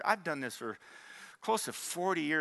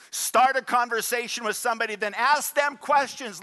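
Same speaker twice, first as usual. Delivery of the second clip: emphatic preaching; 8 semitones higher, 6 dB louder than usual. Real, not acted. Preaching instruction with force.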